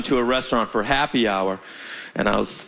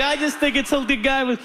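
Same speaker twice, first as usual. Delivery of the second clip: a touch of eager bro; 10 semitones higher than usual. Retold or imitated. Driver insisting to buddies.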